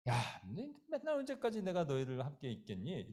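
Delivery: restrained, sighing scolding of disciples; mild reproach. Acted. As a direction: gently chide them, holding back. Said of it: "그냥 이 정도만 하셔야 되는데".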